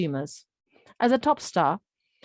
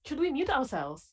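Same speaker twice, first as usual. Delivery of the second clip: soft, higher question off to the side; quiet aside; 7 semitones higher, 6 dB quieter than usual. Real, not acted. Presenter quietly asking co-presenter about muting, hushed. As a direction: murmur it as a private check. Off-mic aside after the talk.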